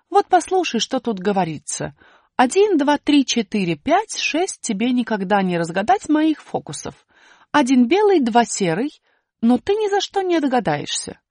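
выше и громче, пересказывая; З переводит считалку Але; голос буквы З. Acted. Буква З переводит. (высокий пересказ буквы З)

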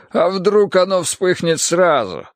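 despairing. A narrator's reading. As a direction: raise the pitch in a drawn-out, anxious appeal. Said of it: "с отчаянием сказал Кар". (с отчаянием, выше и протяжно)

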